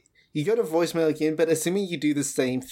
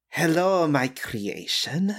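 metallic voice filter; 3 semitones higher, slower than usual. Acted. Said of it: "you hear your father's voice".

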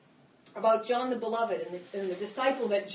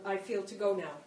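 emotional; 3 semitones lower, 4 dB quieter than usual. Real, not acted. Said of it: "sorry I get emotional".

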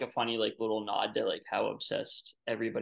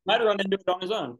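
talking through laughter, pitched up; amused, higher and louder; laughing; 8 semitones higher, 5 dB louder, faster than usual. Real, not acted. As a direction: crack up while saying it. Joking along, laughing at the film.

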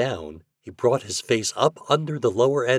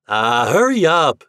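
loud, raised nagging call; impatient shout; 6 semitones higher, 8 dB louder than usual. A narrator's reading. Reddy wants his turn at the game, shouting. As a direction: shout to hurry the player along. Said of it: "shouted Reddy".

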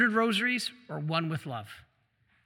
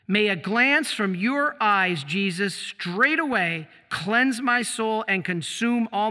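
very slow, reverent recitation; slow prayer reading; slower than usual. Acted. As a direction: savour every word of the prayer. Reads saint's prayer aloud.

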